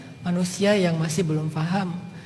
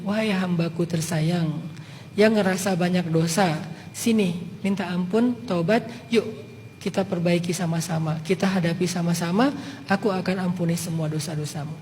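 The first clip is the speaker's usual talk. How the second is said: tender reassurance; 4 semitones lower, 5 dB quieter than usual. Retold or imitated. God speaking to sinners who feel too guilty, soft and tender. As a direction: coax them home gently, like a love letter. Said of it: "Allah bilang gini".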